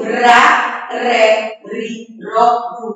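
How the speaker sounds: syllable drill on "ra, re, ri, ro, ru"; mid-word R demonstrated. Shown as a demonstration. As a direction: recite "ra, re, ri, ro, ru" one syllable at a time. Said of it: "o R no meio da palavra".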